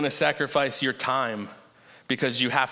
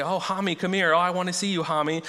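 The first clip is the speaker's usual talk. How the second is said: sweet mommy voice; 4 semitones higher than usual. Retold or imitated. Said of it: "excited she used to be to hear him say".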